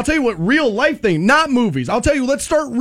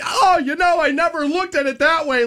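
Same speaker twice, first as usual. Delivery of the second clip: high-pitched mock moment of realisation; hammed-up dawning insight; mock sitcom revelation; 7 semitones higher than usual. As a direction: act out a sappy sitcom lesson, pitched up. Acting out a sitcom lesson moment.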